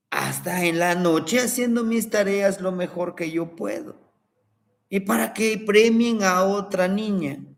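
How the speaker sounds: lightly voiced girl complaining, pitch a bit up; aggrieved granddaughter. Granddaughter telling grandfather about unfair prize, lightly voiced indignant girl. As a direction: whine it to grandpa, hurt and indignant.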